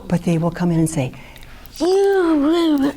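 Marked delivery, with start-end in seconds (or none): 1.8-2.9 angry outburst. Retold or imitated. Client confronting the therapist.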